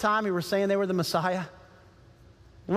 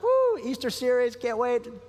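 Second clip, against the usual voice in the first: excited woo; slower than usual. Retold or imitated. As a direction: cheer like a kid before church. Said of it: "I was so excited about church".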